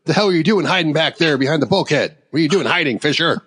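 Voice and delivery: imitated indignant holler; playing-along yell. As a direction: pretend to tell someone off, only half yelling. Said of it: "I yell too, 'cause I'm, like, playing along".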